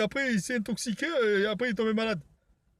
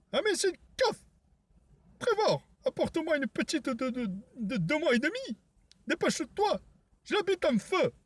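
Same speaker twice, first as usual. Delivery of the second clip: high, shrill-free cartoonish yelling voice; high squeaky voice; 4 semitones higher than usual. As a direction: pitch way up like a cartoon. High-pitched character voice.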